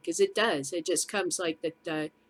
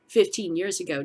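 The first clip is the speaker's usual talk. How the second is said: ordinary talk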